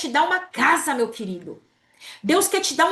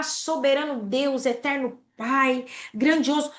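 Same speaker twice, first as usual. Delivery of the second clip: slow, grand mock praying voice; mock solemn prayer, drawn out; pompous prayer; slower than usual. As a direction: ham up a showy churchy prayer. Mocks wordy showy prayer.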